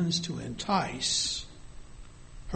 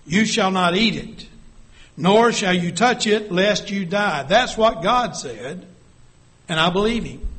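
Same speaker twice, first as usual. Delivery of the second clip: strong, firm and louder; emphatic; 3 semitones higher, 6 dB louder than usual. Acted. Eve answers the serpent, emphatic and firm. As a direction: Eve insists on God's command. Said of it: "now she gets emphatic. She gets strong with her words".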